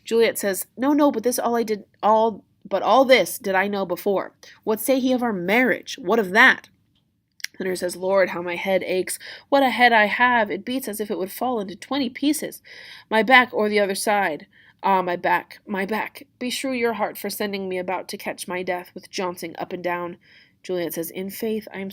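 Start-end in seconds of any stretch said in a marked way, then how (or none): 0.8-6.7 higher, louder acted impatience; frustrated, insistent Juliet; impatient Juliet. Juliet presses nurse about marriage. 8.0-20.2 lightly acted aching nurse; mildly hammed-up moaning about ailments; complaining nurse.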